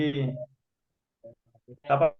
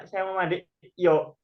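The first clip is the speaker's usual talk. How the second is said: mock asking; 4 semitones higher than usual. Shown as a demonstration. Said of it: "ngapain nanya gitu loh".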